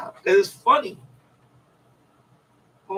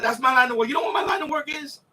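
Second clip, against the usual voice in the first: mock shout; 4 semitones higher than usual. Gangster quote shouted.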